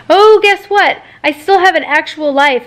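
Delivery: high mock-surprised jab; sarcastic. Patient reminding nurse she has a life, sarcastic. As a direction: sing out a sarcastic reveal.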